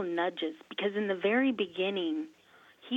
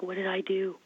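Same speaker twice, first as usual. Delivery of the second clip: worried whisper. Retold or imitated. Retold alarm after group falls down.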